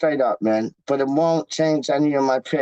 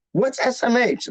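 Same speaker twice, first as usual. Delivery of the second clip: fake clueless; 5 semitones higher than usual. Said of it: "No, I'm just playing with y'all".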